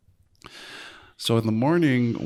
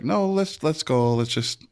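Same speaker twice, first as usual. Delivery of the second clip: eager; 5 semitones higher, slower than usual. Retold or imitated. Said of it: "I was like".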